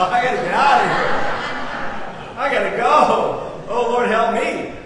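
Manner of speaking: half-laughing fake fright; mock panic. Comic panic wanting to leave.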